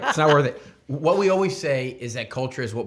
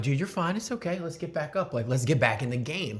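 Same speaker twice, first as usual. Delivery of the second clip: reassuring; 4 semitones higher than usual. Retold or imitated. Reassuring fallen toddler.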